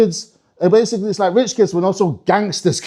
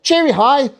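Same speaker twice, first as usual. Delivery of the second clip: high, rising sing-song; perky elf lilt; chirpy elf greeting; 7 semitones higher, slower than usual. Acted. Elf staff greeting at the start of work, chirpy.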